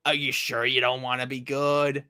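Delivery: low-pitched, half-hearted coaxing; mock coaxing. Sonic feebly persuading his enemy, mock coaxing. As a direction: lamely try to talk a villain round.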